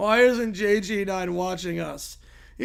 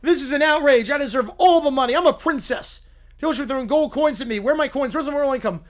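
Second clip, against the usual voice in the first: loud, whiny spoiled princess demanding donations; 3 semitones higher, 5 dB louder than usual. Acted. Princess streamer begging her viewers, loud and whiny. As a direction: stamp your foot for money.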